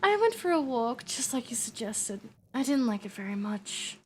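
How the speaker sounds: lightly voiced vampire girl, sulky; a hint of a fussy old vampire complaining. Vampire patient Medi telling her counsellor about a walk, lightly voiced high and sulky. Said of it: "give her, like, a higher pitched one".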